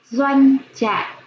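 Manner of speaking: slow, clear model reading of Doanh trại; teacher's model pronunciation of Doanh trại; careful model reading. Shown as a demonstration. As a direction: say Doanh trại slowly, syllable by syllable, for children to copy. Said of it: "Em nghe cô đọc lại".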